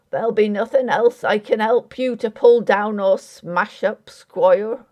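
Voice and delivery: dry, pointed jab at the squire; a touch of sarcasm in a rustic voice; sarcastic. Acted. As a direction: needle him with mock helpfulness. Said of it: "he added sarcastically".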